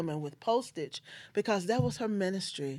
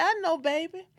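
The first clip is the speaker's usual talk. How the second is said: higher, gentle mother's comfort; tender mother; 11 semitones higher than usual. Retold or imitated. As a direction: soothe her like a dying mother would. Dying mother comforting daughter.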